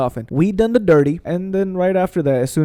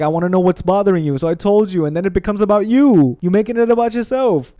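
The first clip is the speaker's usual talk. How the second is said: raised pitch, mildly indignant retelling; retold indignation; 5 semitones higher, 4 dB louder than usual. Retelling a quarrel with partner, mildly indignant. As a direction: build into a higher, aggrieved protest.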